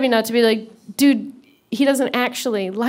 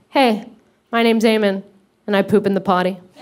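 mock-confident put-on kid voice, much lower; 4 semitones lower than usual. Telling of meeting Mickey at Disneyland, the speaker is imitating Eamon's confident greeting. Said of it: "walks right up to Mickey all confidently".

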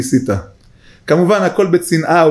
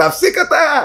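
high-pitched mock yell. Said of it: "ככה צעקתי".

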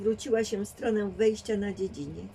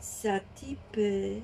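slow, deliberate, unhurried delivery; 3 dB quieter than usual. A narrator reads a character's first words to Esa, speaking slowly. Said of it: "Odezwała się powoli".

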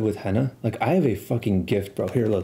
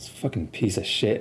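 acted-out muttered aside under the breath; 4 dB quieter than usual. Retelling what a counselor said in front of everyone, muttering under his breath. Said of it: "under his breath".

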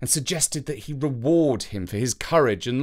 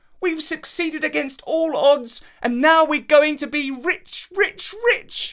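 overjoyed, delighted cry, very high pitched; 4 dB louder than usual. Narrator voices a character celebrating success outside the palace, delighted exclamation. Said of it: "Avenant could not contain his delight. He danced for joy".

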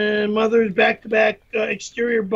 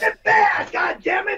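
furious maniacal angry yelling, much higher; 11 semitones higher than usual. The speaker, arguing over where something should go, yelling like a maniac. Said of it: "stop yelling like a maniac".

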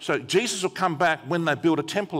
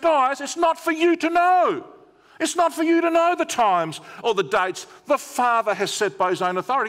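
mock exasperated, a bit angry, very high pitch; 9 semitones higher, 4 dB louder than usual. Retelling what Jesus said to the disciples, a bit frustrated. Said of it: "he's almost a bit angry, a bit frustrated".

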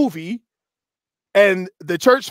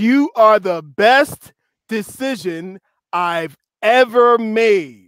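slow, deliberate, intentional reading. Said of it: "I wanted to read it slow and intentional".

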